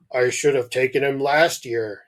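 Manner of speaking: lightly put-on dad voice; a hint of a character father. Dad regrets not taking his son, lightly voiced dad. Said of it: "said Dad".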